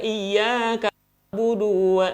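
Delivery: "Iyyaka na'budu wa" with "du" wrongly stretched; lengthened "du". Shown as a demonstration. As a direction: drag the "du" in "na'budu" before "wa". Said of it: "jadi manjang".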